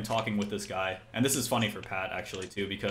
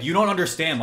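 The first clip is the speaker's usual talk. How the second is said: higher-pitched mock pleading; imitated protest; 7 semitones higher, 4 dB louder than usual. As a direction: imitate an aggrieved complainer, pitched up. Imitates complaining opponent's protest.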